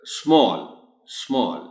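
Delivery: स्मॉल with a long open ऑ; small with aw. Shown as a demonstration. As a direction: say स्मॉल with the broad aw vowel. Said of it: "ऑ sound है इसमें". (स्मॉल में खुला ऑ)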